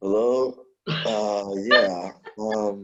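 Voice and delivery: deep, very slow groggy drawl. Retelling answering work calls after no sleep: imitating own deep tired voice. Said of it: "My voice was deep".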